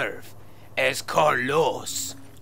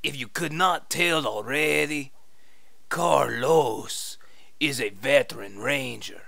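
fake Spanish accent. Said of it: "your fake Spanish accent".

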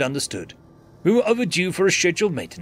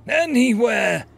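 desperate order; 7 semitones higher, 4 dB louder, slower than usual. Acted. Dying, orders nav computer.

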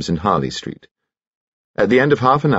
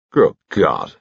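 exclaiming. A narrator's reading. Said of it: "exclaimed Sir Herbert".

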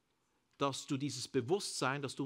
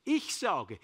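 1 loud declaration; 4 semitones higher, 6 dB louder than usual. Shown as a demonstration.

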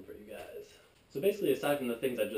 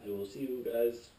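put-on old speech synthesizer. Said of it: "Beep boop".

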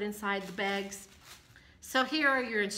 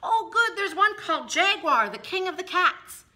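excited; 9 semitones higher, 7 dB louder than usual. Retold or imitated. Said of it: "I thought".

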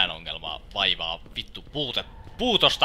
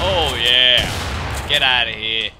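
kova voitonriemuinen huuto; riemuhuuto; 8 dB louder, much slower than usual. Real, not acted. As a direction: huuda riemusta ampuessa. Ampuu zombin. (kova hehkutus zombia ammuttaessa)

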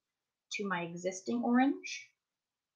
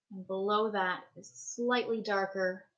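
talking around a paintbrush held in the mouth; 4 dB louder than usual. Real, not acted. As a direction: speak with a brush between the teeth. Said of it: "I'm talking with the paintbrush in my mouth".

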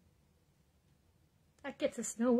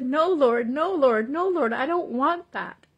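louder pleading to the Lord; crying out; 2 semitones higher, 6 dB louder than usual. Retold or imitated. Retelling her cry to the Lord, a louder plea. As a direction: plead out loud, repeating no. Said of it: "I cried out and I said".

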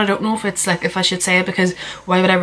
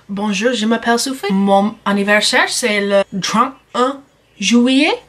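school French. Shown as a demonstration. Vlogger showing off her school French. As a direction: recite textbook French carefully. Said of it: "I can't speak French".

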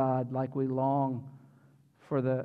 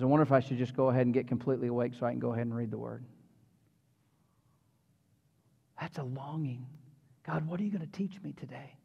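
much softer, half-whispered so as not to wake his wife; quick hushed thoughts at dawn, much softer; hushed early morning; 5 semitones lower, 9 dB quieter, faster than usual. Retold or imitated. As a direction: keep it down, wife is asleep. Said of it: "Charlotte's gonna get mad".

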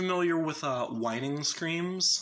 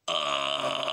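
deep compressed growl on uh; low guttural grunt; 9 semitones lower than usual. Shown as a demonstration. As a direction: push a low gritty uh from the throat. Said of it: "comes out as just".

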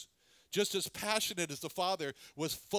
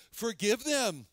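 pleading for forgiveness; 3 dB louder, slower than usual. Acted. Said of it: "what the blood of the Lord Jesus is crying is".

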